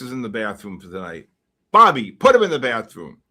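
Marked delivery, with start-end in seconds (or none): 1.7-3.2 loud barked order to his henchman; mob boss order. Acted. Acted mobster movie scene.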